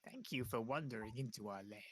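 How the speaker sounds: whispered, eerie little imp; fire imp voice. Acted. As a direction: hiss it like a sly fire imp. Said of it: "That's a, that's a fire imp voice".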